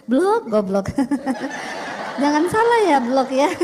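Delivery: scolding through a laugh. Retold or imitated. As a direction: tease the clerk with a grin. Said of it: "Cuma sambil senyum". (memarahi sambil tertawa)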